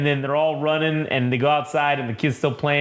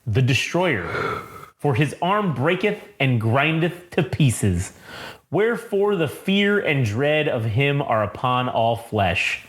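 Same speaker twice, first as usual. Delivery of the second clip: epigraph reading. Acted. Reads the opening epigraph aloud.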